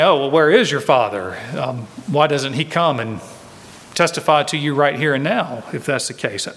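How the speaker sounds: hint of scoffing disbelief; sarcastic. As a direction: sneer the question back at him, lightly. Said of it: "maybe very sarcastically".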